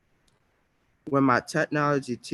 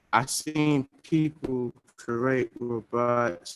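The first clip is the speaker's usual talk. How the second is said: laggy connection; 2 semitones lower, slower than usual. Real, not acted. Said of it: "your internet is lagging".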